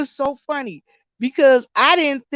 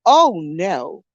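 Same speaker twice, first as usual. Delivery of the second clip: imitating scared sister; 3 semitones lower, slower than usual. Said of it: "She said".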